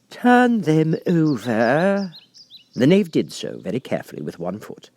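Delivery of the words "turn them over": high, slow, cold command; angry Queen. A narrator's reading. The Queen ordering the Knave, cold angry command. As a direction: bite out the order. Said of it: "turned angrily away".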